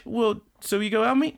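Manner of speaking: high, mock-pleading voice; hopeful suitor. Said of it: "he's like".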